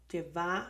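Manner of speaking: lleva with the stress on the last syllable, VA; misplaced stress. Shown as a demonstration. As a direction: say lle-VA, hitting the second syllable. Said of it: "it's not llévamelo".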